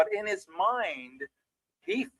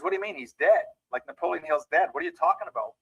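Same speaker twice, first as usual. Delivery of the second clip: incredulous, pitched up in mild astonishment; retold disbelief; 2 semitones higher, faster than usual. Clement Stone to the man saying Hill will speak, incredulous. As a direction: question it like it makes no sense.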